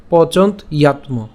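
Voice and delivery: "পচন্ত ইয়াত ম" in separate parts; split pronunciation. Shown as a demonstration. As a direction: pause after pochont in "পচন্ত ইয়াত ম", then yatmo. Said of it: "বেশি ভাঙানোর প্রয়োজন হচ্ছে না".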